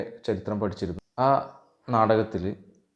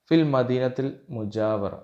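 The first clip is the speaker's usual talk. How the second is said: slow, deliberate Arabic line, a little louder; carefully spaced Arabic dialogue line; slow dialogue reading; 2 semitones higher, 3 dB louder than usual. Shown as a demonstration. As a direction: read it out slowly for students to repeat. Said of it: "ഫിൽ മദീനത്തിൽ മുജാവിറ എന്നാൽ".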